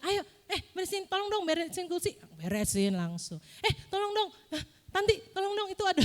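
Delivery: high-pitched, lively acted request; calling for help. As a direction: call someone over to lend a hand.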